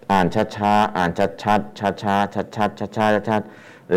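separate, measured syllables in a repeating rhythm; slow and clear. Shown as a demonstration. Teacher advises beginners how to read, slow and clear. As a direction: spell it out slowly, beat by beat.

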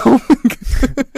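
high, loud, slow blubber through laughter; mock crying. Retelling crying at the computer, mock blubbering. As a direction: laughingly imitate your own crying.

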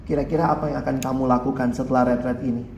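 low, gently measured asking; polite question. Retold or imitated. Youth leader asks upset teen at retreat, low polite question. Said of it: "Ya saya tanyanya dengan sopan lah ya".

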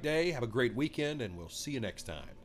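hoarse, nasal voice from a cold; scratchy throat. Real, not acted. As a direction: talk through a scratchy, stuffy throat. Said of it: "I apologize for the scratchy throat and the nasally voice today".

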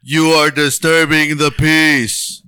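robot voice. Pretend. RoboCop lines continued.

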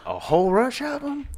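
surprised. Real, not acted. Surprised echo of friend.

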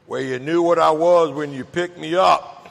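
low, unbothered reply; cold shrug of an answer; matter-of-fact snake. Acted.

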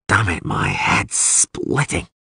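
slow, groggy groan of pain; groggy, aching complaint; pained groggy waking. Acted. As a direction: drag it out like your head hurts. Waking hurt, head splitting.

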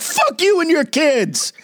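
high, slow squeaky threat; gangster Elmo. Retold or imitated. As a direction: spit it out like a tiny thug. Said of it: "He's like".

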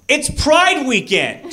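sudden high, slow, half-laughing line; high incredulous quote. Retold or imitated. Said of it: "I actually found myself say".

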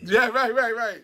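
put-on lightly leering old man; mock lecherous chuckle into words; leering wheezy old man. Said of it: "I sound like a dirty old man".

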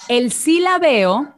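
"El silabeo" said slowly, each syllable separate. Shown as a demonstration. Trainer demonstrating syllabification to call-center agents, slow and deliberate. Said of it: "una técnica muy importante que se llama silabeo".

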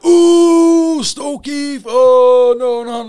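high, loud mocking groan; mock dread. Whole wing jeering at the new boy's transfer, mock horror. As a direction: tease him like it's a death sentence. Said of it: "everyone on the wing".

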